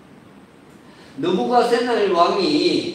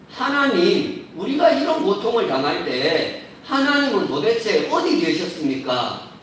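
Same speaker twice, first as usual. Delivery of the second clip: imagined protest. Retold or imitated. Exiles left in ruined Jerusalem question God, in mild protest. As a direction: plead a complaint to God, lightly acted. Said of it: "이렇게 따졌을 것입니다".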